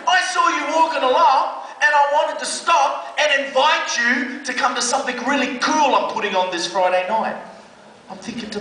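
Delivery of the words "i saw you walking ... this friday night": high, bright and keen invitation; eager youth worker. Retold or imitated. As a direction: sell it with a big friendly push.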